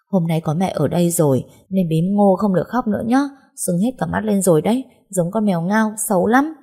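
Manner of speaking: mother teasing her daughter to stop crying; playful coaxing. Acted. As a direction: tease her out of tears. Mother teasing child gently.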